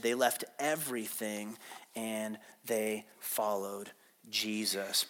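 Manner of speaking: slow, hushed, low reading voice; measured Bible reading, settling to a quiet close; scripture reading. Acted. Reads scripture aloud to congregation.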